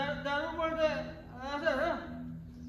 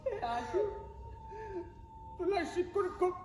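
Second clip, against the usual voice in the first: tearful grief; 4 dB louder than usual. Acted. Grieving over younger brother.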